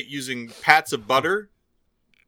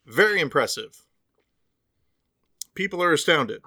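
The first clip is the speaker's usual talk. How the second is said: mouth full; 3 dB quieter than usual. Real, not acted. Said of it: "I'm eating something".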